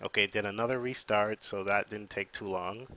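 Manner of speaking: muffled, stuffed-up voice from the flu. Real, not acted. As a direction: talk through a flu-blocked, muffled nose. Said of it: "might be sounding kinda muffled 'cause I'm fighting this flu".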